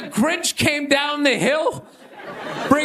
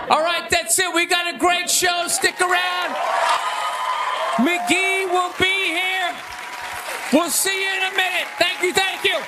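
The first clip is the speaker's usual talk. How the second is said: high, projected stage announcement; raised emcee voice over applause; show sign-off; 5 semitones higher than usual. Real, not acted. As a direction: call out to the whole room to close the set. Comic signing off to the crowd.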